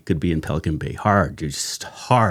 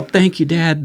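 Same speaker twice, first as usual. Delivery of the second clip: put-on high-pitched kid voice, louder; crying thanks; 9 semitones higher, 4 dB louder, slower than usual. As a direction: imitate the boys thanking their dad. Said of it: "And they're all".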